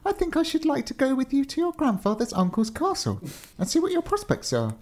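very high-pitched fairy voice. Acted. Fairy asking to travel with the giant, high fairy voice. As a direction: speak way up high as a polite fairy.

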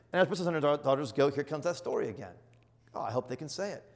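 usual speaking voice

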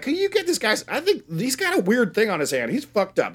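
high, rushed mock panic; mock panicked plea. Podcaster voicing teens begging the small-town doctor in a high mock panic. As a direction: hurry them into helping. Characters demand help at hospital.

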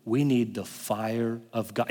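mock lifeless preacher, slow and low; flat slow preacher. Pastor imitating a dull preacher's flat tone. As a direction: say it with no passion at all. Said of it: "In that tone".

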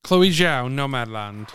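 odd affected announcement. Pretend. Presenter reveals the Best Director winner, odd affected delivery. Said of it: "Why'd you say it like that?".

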